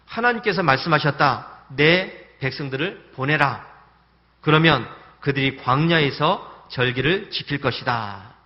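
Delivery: slow, loud, commanding voice of God; solemn proclamation, drawn out; God's command. Retold or imitated. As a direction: pronounce it like a divine decree. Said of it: "이렇게 했습니다".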